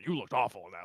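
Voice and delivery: lightly voiced Drax. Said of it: "Drax as a bartender who's like".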